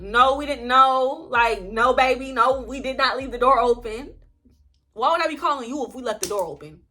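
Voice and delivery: exasperated. Retold or imitated. Telling the foreman she did not leave the door open, getting exasperated. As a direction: push back harder with every line. Indignant retold argument with foreman.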